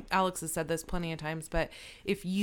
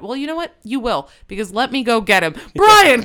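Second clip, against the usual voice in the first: loud, laughing, much higher mock shout; gleeful mock call-out; 6 semitones higher, 14 dB louder than usual. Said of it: "I'm like".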